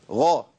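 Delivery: غا with a full heavy emphatic غ; heavy غ demo. Shown as a demonstration. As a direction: model the heavy غ in غا. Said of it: "تبقى إيه".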